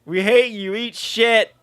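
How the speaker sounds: high, loud hammed-up thug shouting; mock mob yell. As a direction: bark it like a rabid mob. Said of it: "mobs that wanna come out and go".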